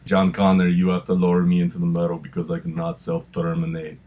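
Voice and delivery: low Austrian-tinged Terminator voice, lightly done; Arnold impression. Mild Arnold impression for his co-host about Terminator 2. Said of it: "That's my Arnold".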